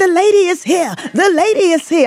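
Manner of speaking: put-on Puerto Rican accent, pitched very high. Retelling what her prison mom Diana Sanchez told her, in a Puerto Rican accent. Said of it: "Puerto Rican accent".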